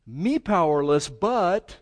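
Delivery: loud voiced prayer. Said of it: "voicing Jehoshaphat's prayer".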